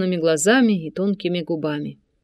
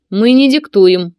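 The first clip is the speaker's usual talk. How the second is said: louder, slow and weighty; stern loud retort; 8 dB louder, slower than usual. A narrator's reading. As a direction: lay down each word heavily.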